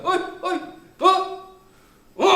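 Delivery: high, chummy calls; teacher casually hailing students instead of nagging; cheerful teacher greeting. Retold or imitated. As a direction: greet the boys like a buddy. Teacher greets kids wordlessly.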